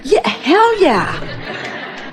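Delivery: slow, drawn-out laughing echo; laughing hell yeah. Acted. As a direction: savour it with a laugh. Echoing the client's emphatic yes.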